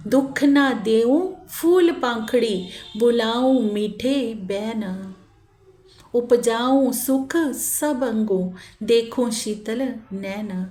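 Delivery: slow, drawn-out devotional verse; verse recitation. Acted. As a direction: recite the verse unhurriedly, stretching the words. (धीमे, खींचकर चौपाई का पाठ)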